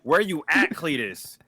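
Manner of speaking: hollering Cletus's name high and loud; mock hillbilly call. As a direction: yell across the yard for him. Calling out for Cletus.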